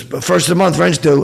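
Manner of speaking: high, loud barked landlord line; mock stern landlord; gruff landlord line. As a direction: bark it like a landlord demanding rent.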